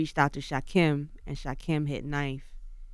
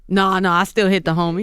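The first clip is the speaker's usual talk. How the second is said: laughing through the words; amused, louder with a laugh; 4 semitones higher, 10 dB louder than usual. Real, not acted. Laughing reply about a rapper.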